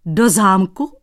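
loud astonished yelp on Do zámku; squealing in disbelief. Acted. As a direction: yelp it back, stunned. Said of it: "Vyjekl Dratvička". (vyjeknutí, hlasitě a nevěřícně)

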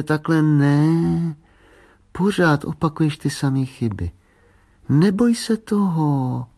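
mildly exasperated coaching; exasperated little sister. Acted. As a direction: urge little brother on, stretching key words. Little girl silently scolding her brother.

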